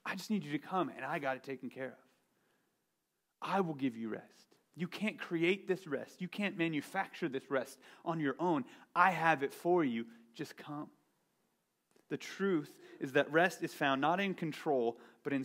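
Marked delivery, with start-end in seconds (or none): 0.0-10.9 gentle Jesus. Retold or imitated. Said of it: "Jesus says".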